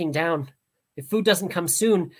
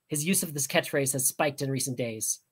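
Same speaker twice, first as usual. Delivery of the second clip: ordinary delivery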